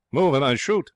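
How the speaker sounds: parrot threat. A narrator's reading. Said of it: "it has said to those gathered".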